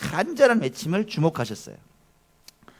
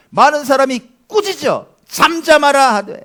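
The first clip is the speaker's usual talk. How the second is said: laughing; 11 semitones higher, 11 dB louder than usual. Real, not acted. Laughs then reads scripture loudly.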